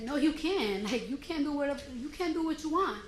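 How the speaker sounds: mildly heated comeback; retold argument. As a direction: push back firmly, retelling an argument. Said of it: "that's when we started arguing".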